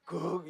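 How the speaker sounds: drawn-out mock burp; imitated burp. Woman going around burping, imitated burp. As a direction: act out a casual burp. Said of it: "이러면서 다니더라고요".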